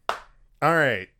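usual speaking voice

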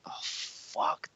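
breathy whisper of dread under the breath. Retold or imitated. Retelling his fear before sparring, a whispered oh fuck.

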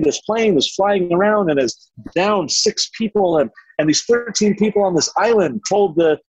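gushing viewer. Retold or imitated. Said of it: "you're like".

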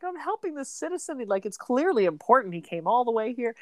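lightly acted eagerness; retold excitement. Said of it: "they're all excited".

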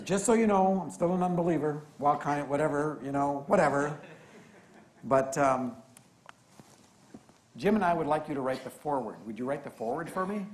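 lively mock of an atheist friend asking a favour; eager Matt. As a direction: play the friend keen to ask a favour. Matt's email voiced excitedly.

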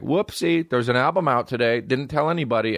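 mock coy singer. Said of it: "She was like".

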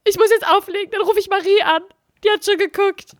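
high, hurried mock brush-off; a hammed-up flustered sister, pitched high. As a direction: cut the call short like the sister. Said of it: "Und sie so".

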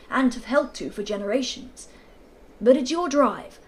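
put-on loud, booming old colonel; bluff colonel. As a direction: boom it across the golf links. Narrator voices the Colonel.

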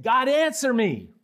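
insist, almost ordering God; demanding God answer. Acted.

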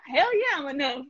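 hyped mirror affirmation. Retold or imitated. Hyping herself up at her bathroom mirror, excited high cheer. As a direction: pitch shoots way up on a triumphant hell yeah. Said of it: "I say".

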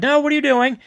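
acted-out cry of disbelief; mock alarmed call. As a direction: imitate soldiers calling after him in alarm. Troops retold calling out in alarm.

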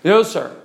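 imitating a son's slurred "No, sir"; mushy, blurred consonants on "No, sir". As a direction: run "No, sir" together so yes and no blur. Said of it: "he has formed a habit of slurring".

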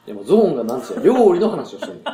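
loud laughing insistence. Real, not acted. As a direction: push the point through laughter. Laughing through his own point.

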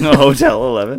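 high put-on Indian accent. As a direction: boast in a comic Indian accent. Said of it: "Indian accent".

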